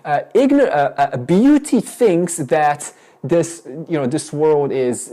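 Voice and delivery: loud, slow start easing off; demonstrative example sentence. Shown as a demonstration. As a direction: declare a sample sentence, groping for words. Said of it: "why don't you speak like this".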